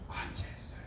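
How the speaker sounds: unvoiced whispered answer. Real, not acted. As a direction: whisper the confession. Answering own question hushed.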